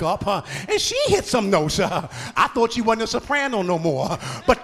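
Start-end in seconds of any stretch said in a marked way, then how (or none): 4.5-4.6 insistent repeats climbing in intensity; rousing preaching. Acted. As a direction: drive the reminder home like a preacher. Preacher building in force.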